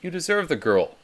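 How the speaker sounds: buddy pumping up a friend; hyping friend. Retold or imitated. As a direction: sell him the dream. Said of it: "you hear someone say".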